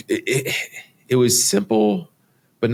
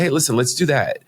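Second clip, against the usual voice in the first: higher-pitched retold urging; eager suggestion; 6 semitones higher than usual. Retelling how he urged his girlfriend, eager suggestion. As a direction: act out talking her into it, mildly eager.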